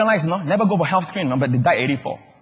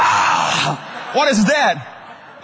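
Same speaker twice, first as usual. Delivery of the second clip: mock alarm; much slower than usual. Mock doctor finding problem.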